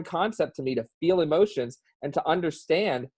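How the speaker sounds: emotional plea to be understood. Real, not acted. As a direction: let real feeling push the pitch up. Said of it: "I know I sound emotional".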